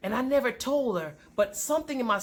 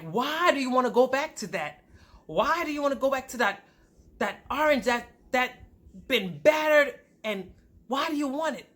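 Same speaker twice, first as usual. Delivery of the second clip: higher, insistent pulpit questioning; preaching pastor; 5 semitones higher than usual. Retold or imitated. Pastor challenging the congregation, preaching insistently. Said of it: "the pastor was preaching a message".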